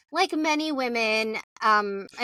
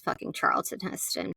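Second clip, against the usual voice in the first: under the breath; muttered; 5 dB quieter than usual. Real, not acted. Muttered aside.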